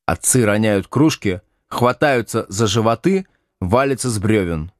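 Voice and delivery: ordinary delivery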